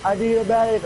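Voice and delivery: high yell for a medic; man down shout. Retold or imitated. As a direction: call out for a medic. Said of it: "They're like".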